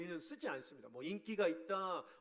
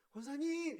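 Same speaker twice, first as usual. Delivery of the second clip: higher, sharp call of 권사님 alone; curt call; 9 semitones higher than usual. Shown as a demonstration. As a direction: snap out 권사님 to get attention. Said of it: "이거랑요". (높고 날카롭게 부르는 권사님)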